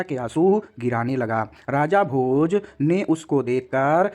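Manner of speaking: slow, emphatic retelling of the story; slow storytelling translation. Shown as a demonstration. Teacher narrating the full translation to students, slow and emphatic. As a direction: read it out carefully so they follow. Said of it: "एक बार पूरा अनुवाद ... ध्यान से सुनिएगा".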